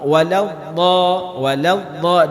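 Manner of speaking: Waladha with a firm side-tongue dhad; teacher showing dhad. Shown as a demonstration. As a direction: stress the dha sound in Waladha. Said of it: "Ini penting huruf dhad".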